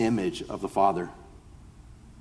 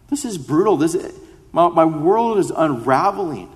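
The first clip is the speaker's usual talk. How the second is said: anguished cry to God; 6 semitones higher than usual. Pretend. Voicing grieving believer's cry.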